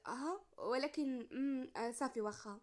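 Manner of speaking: slow, halting reluctant agreement; a hesitant girl finally agreeing. Acted. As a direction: stall and hesitate before giving in. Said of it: "نطقات بتردد".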